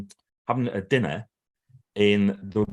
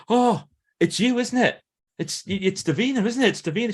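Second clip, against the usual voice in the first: homeless man recognising her; 12 semitones higher, 3 dB louder than usual. Retold or imitated. Homeless man outside restaurant recognising Davina, high and amazed. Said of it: "suddenly he went".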